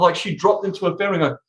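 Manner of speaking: ordinary talk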